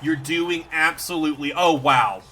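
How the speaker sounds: shower the creature with delighted praise; overjoyed praise. Real, not acted. Streamer celebrating Snom's win, loud and thrilled.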